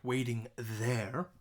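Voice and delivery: waiting there, said slowly with weight on "Waiting"; syllable by syllable, stress on "Waiting"; slow stressed reading. Shown as a demonstration. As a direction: lean on "Waiting" and stretch the words. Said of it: "there is one syllable".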